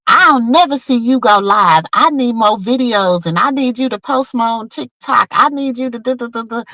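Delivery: imitating her sister. Sister urging her to go live on TikTok, lightly imitated. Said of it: "And then she was like".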